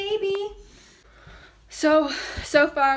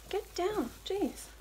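scolding the dog; 7 semitones higher, 7 dB quieter, slower than usual. Real, not acted. Scolding the dog mid-sentence.

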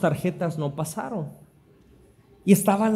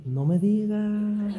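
slow, stretched-out reaction; playfully drawn-out disbelief; mock gossipy amazement; 2 semitones higher, slower than usual. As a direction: drag out the last word, hooked by gossip. Acts his reaction to gossip.

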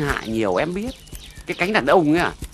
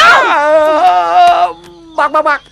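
high, loud cry to stop her; startled loud call of bác, bác, bác; urgent calling out; 12 semitones higher, 10 dB louder, much slower than usual. Acted. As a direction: shout after her to hold her back. Neighbour urgently calls her back.

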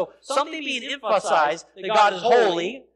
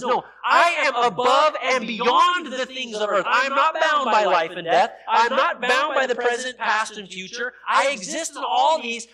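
voicing God; 3 semitones higher, 4 dB louder than usual. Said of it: "The holiness of God says".

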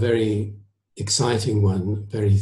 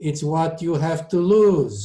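put-on higher Italian-accented counterpoint; dry comment; 7 semitones higher than usual. A narrator's reading. Maestro finishes countering the surgeon, dry Italian accent. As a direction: finish the dry point, leaning on the ending. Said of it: "Toscanini commented dryly".

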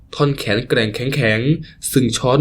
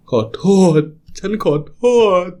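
higher, tear-choked apology; crying out sorry once more; sobbing apology; 5 semitones higher than usual. Acted. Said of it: "ร้องไห้สะอึกสะอื้น". (ขอโทษเสียงสั่นทั้งน้ำตา)

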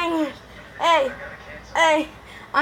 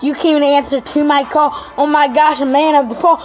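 raised voice throwing down a challenge; loud call-out; 4 dB louder than usual. Real, not acted. Kid yelling at YouTubers to come roast him, loud call-out.

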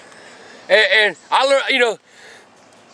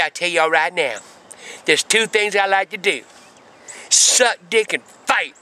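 menacing warning; 5 semitones lower than usual. Retold or imitated. Victim warns them before fighting.

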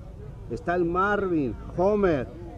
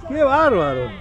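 amazed exclaim; 10 semitones higher than usual. Real, not acted. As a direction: gasp in amazement. Exclaiming at a play.

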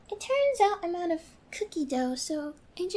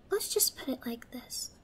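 much lower and softer, a hushed threat; menacing whisper; 6 semitones lower, 8 dB quieter than usual. Acted. Captor quietly laying down the rules to her captive, menacing whisper. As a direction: lean in and hush it.

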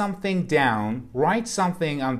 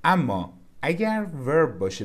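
usual speaking voice

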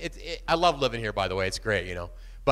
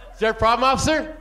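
mock nonchalant; 5 semitones higher, 4 dB louder than usual. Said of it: "I figure I'll just be nonchalant".

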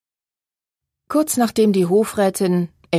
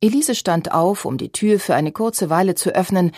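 usual speaking voice

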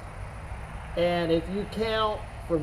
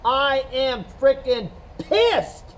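slow, pressed pretend anger; a hammed-up grumble of anger; mock angry; 5 semitones higher, slower than usual. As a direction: act out being pissed, slow. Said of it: "If I was pissed, I'd say".

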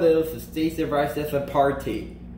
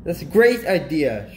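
louder delight, well short of shrieking; mild mock shriek; 5 dB louder than usual. Nebraska applauds the party idea, mildly mock-shrieking. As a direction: give a small, loud exclamation of approval. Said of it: "shrieked Nebraska".

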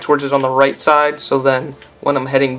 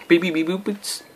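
robot beeps; 4 semitones higher, 6 dB quieter than usual. Pretend. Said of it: "we always talk like robots".

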